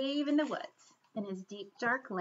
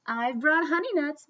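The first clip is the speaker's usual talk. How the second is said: grinning badger; 3 semitones higher, 6 dB louder than usual. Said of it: "Badger says with a grin".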